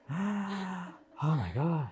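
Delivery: lightly voiced relieved client. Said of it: "feeling more relaxed".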